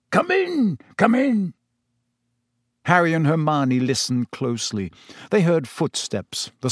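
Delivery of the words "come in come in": high-pitched, joyful welcome; weak with happiness. A narrator's reading. Relieved owner invites guests inside, giddy with happiness. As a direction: usher them in, overjoyed. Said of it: "who sounded weak with happiness".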